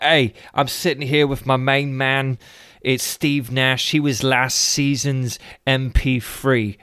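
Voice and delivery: laid-back mock interviewer swagger, lightly done; Ali G impression. Telling the Steve Nash skit, a hint of Ali G's voice. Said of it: "He's like".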